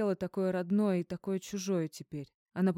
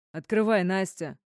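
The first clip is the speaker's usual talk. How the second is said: loud, demanding yell through a door; furious shout to be let in; 7 dB louder than usual. A narrator's reading. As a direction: bang on the door and yell her name. Pounding on door, yelling.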